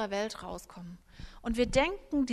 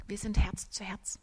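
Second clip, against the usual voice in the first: whisper; 2 semitones lower than usual. Shown as a demonstration. Intimate whispered heart connection.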